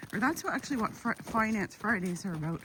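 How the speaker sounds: excited stumbling over words; tripping over the words in excitement; stuttering. Real, not acted. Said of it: "I'm so excited I'm stuttering".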